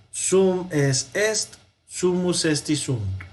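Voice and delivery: slow, measured drill recitation; recitado para memorizar. Shown as a demonstration. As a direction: recite it in two even groups for students to memorize. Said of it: "Lo podemos repetir varias veces". (recitado lento y acompasado para memorizar)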